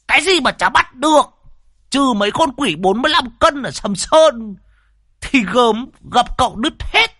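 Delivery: old Đồng mocking the host, bragging about his master; guffawing boast. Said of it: "cười hô hố".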